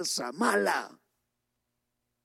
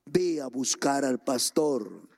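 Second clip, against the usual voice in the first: much lower, hushed divine voice; voice of God; 10 semitones lower than usual. Retold or imitated. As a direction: speak low like a voice from above. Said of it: "una voz le dice".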